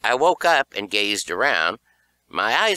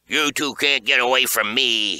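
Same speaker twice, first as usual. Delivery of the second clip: hollered; 5 semitones higher, 4 dB louder than usual. A narrator's reading. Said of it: "he hollered".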